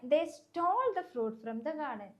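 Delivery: "stole" stressed and drawn out. Shown as a demonstration. Teacher shows students the theft is the problem, stress on "stole". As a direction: lean hard on "stole" within the sentence. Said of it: "ഈ സ്റ്റോളിനാണ് എന്ത് കൊടുത്തിട്ടുള്ളത്".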